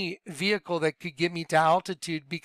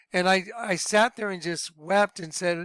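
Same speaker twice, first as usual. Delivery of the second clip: normal talking voice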